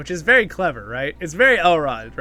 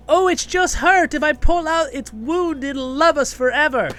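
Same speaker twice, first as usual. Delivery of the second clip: high, loud, drawn-out gushing; hammed-up pleading for a wounded monster; exaggerated high-pitched bleeding-heart voice; mock sappy plea; 12 semitones higher, 7 dB louder than usual. Voicing a feared sappy monster plot.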